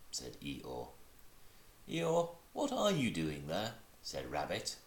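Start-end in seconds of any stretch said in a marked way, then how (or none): 1.9-3.7 calling down. Acted. Rabbit calling down.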